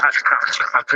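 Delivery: mouth-made crunchy chewing noise; imitated crunching. Podcaster imitating a woman eating chips on YouTube, mock crunching.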